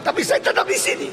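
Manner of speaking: high, breathless mock laugh through the words. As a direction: chuckle at the irony. Repeated complaint, laughing.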